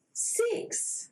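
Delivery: high breathless whisper of the number; whispered reveal. Acted. Storyteller reveals the shrinking count to children, hushed high whisper. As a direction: gasp it out like a secret shock.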